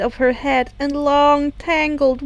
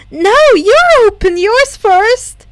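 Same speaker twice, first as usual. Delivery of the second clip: higher, louder, slow stubborn retort; determined; 8 semitones higher, 8 dB louder than usual. A narrator's reading. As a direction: dig in stubbornly. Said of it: "just as determinedly".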